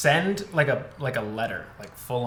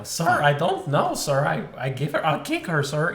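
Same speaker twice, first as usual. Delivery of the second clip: Bartok the Bat. Acted. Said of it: "I love Bartok".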